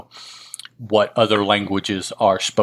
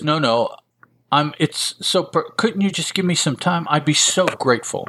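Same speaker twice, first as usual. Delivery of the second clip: higher-pitched, lightly acted plea; pleading woman; 6 semitones higher than usual. Indebted woman asks collector for time, lightly acted pleading. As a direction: lightly voice a woman begging, with halting starts.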